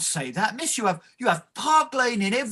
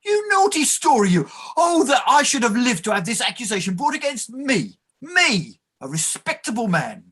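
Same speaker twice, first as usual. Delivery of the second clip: wounded protest; 3 semitones higher than usual. Acted. Clerk protests his respectability.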